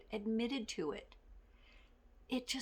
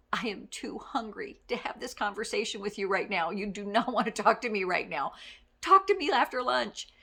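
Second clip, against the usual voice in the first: louder, half-laughing hungry grumble; hangry warning; 5 dB louder than usual. Retold or imitated. Hungry boss warns staff off, louder and laughing. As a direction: warn them off, mock grumpy and laughing. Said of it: "I was like".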